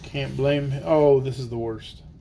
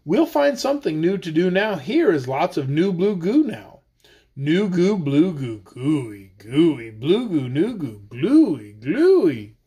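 lively sing-song read-aloud; reading to children; slower than usual. Acted. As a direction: read the rhyme playfully to kids. Reads tongue-twister book aloud.

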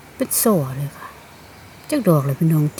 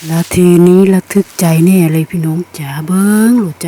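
much louder, bursting with thrill; thrilled exclamation; 10 dB louder than usual. Real, not acted. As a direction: call the viewers in, bursting with excitement. Thrilled at finding mushrooms.

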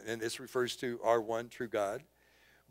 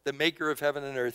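soul talk; 6 dB louder than usual. Acted. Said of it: "his own soul talk".

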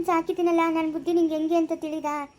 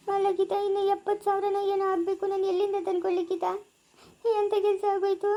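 tearful pleading; 3 semitones higher than usual. Acted. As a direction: plead in despair, fighting back tears. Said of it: "ಅಳ್ಬೇಡ ಸುಮ್ನೆ ಇರಕ್ಕ".

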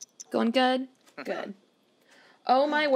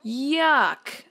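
mock yuck; 3 semitones higher, 3 dB louder than usual. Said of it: "I love it".

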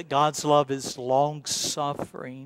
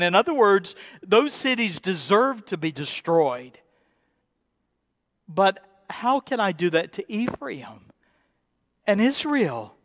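impassioned preaching, pitch raised; full-force preaching; 7 semitones higher than usual. Acted. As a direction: pour the plea out to the congregation.

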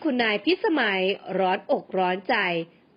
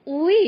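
shocked gasp; 6 semitones higher, 6 dB louder, much slower than usual. Acted. Mother shocked at the news.

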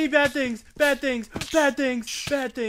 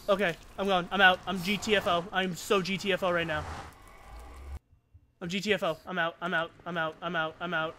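low muttering; 8 semitones lower, 8 dB quieter, faster than usual. Real, not acted. Fading retreat murmur.

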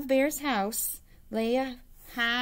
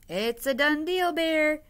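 pleased Hare; 7 semitones higher, 6 dB louder than usual. A narrator's reading. Hare sealing deal, pleased.

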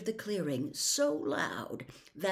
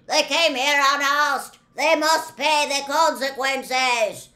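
loud, raised, heavy centaur pronouncement; shouting; 9 semitones higher, 12 dB louder than usual. A narrator's reading. Bearded centaur calls from back of crowd, shouting. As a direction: shout it like an accuser. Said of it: "A bearded centaur ... shouted".

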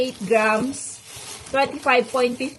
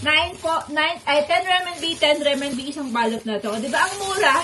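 out of breath after shopping; 3 semitones higher, faster than usual. Real, not acted. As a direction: talk while catching breath. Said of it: "Hinihingal ako".

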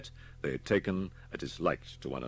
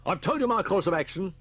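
sharp, louder and higher retort; snapped; 14 semitones higher, 8 dB louder than usual. Acted. Inspector snaps back at Holman, sharp and louder. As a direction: cut him off, irritated. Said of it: "snapped Reeford".

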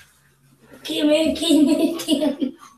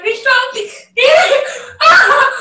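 high shaky cry bracing for cold; shivering; 10 semitones higher, 10 dB louder than usual. Real, not acted.

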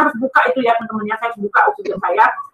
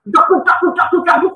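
quick thudding heartbeat noise; imitated pounding heartbeat; 4 semitones higher than usual. Speaker shows friends how the heart pounded, imitated thuds. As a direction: mimic a racing, thumping heart.

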